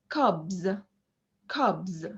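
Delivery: CUBS with a long relaxed vowel and buzzing bz; voiced ending, longer vowel. Shown as a demonstration. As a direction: draw out the u in "cubs" before a voiced b. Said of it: "are a bit longer".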